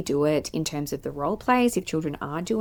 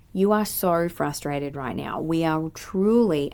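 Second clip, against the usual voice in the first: empathetic tone; 4 dB louder, slower than usual. Shown as a demonstration. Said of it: "you can notice with my nonverbal inflections".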